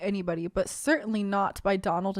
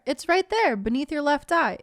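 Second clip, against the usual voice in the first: mock cheer; 4 semitones higher than usual. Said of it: "you say with utmost cheer".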